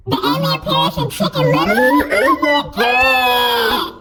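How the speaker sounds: chipmunk voice. Real, not acted. High pitch filter on stream.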